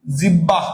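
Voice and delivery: জিব্বাহ with a doubled b; common pronunciation. Shown as a demonstration. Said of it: "বলি না, এটা জিব্বাহ".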